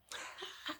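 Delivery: short soft laugh; quiet chuckle to yourself. Real, not acted. Reviewer amused after revealing the bottle, soft laugh.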